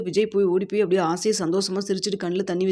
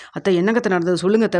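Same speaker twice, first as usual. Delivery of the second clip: louder, demanding; husband angrily demanding the truth from aunt; angry; 5 dB louder than usual. Retold or imitated. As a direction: insist angrily on an answer. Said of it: "Vijay ரொம்ப கோவமா கேக்குறாங்க".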